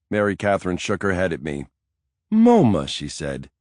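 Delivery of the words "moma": high, loud disbelieving "moma"; incredulous. A narrator's reading. Nanny doubting Mike's museum plan, high incredulous scoff.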